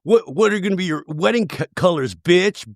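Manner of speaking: playful on-field heckling; trash-talking opponent. Acted. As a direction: needle a rival to get in his head. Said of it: "I'd be like".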